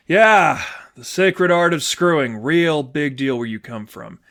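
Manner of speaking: put-on a sarcastic girlfriend scoffing; sarcastic mockery. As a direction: sneer at the idea of sacred. Sadie mocks girlfriend's abstinence.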